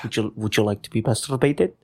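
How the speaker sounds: hammed-up Russian accent; fake Russian accent. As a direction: hairdresser in a mock Russian accent. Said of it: "fake Russian accent".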